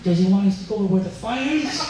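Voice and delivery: lightly put-on funny voice; mock a colleague's odd voice for a laugh; funny-voiced firefighter. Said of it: "this gentleman with the funny voice goes".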